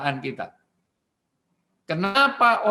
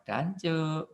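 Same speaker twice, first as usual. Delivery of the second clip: casual curse; 6 dB quieter than usual. Retold or imitated. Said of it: "Nggak ada orang marah kok".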